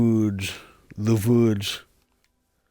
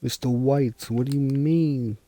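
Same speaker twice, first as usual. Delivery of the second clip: bad Jesse impression; 4 semitones higher than usual. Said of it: "It sounds nothing like Jesse".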